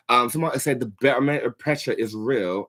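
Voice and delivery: tripping over barometric pressure in a put-on accent; stumbling attempt. Shown as a demonstration. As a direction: fumble the words barometric pressure. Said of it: "so I stuttered it".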